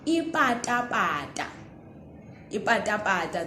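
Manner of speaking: "Ipatapata" with plain unaspirated p and t; careful demo of "Ipatapata". Shown as a demonstration. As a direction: slipper word said clearly. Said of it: "Listen to this one".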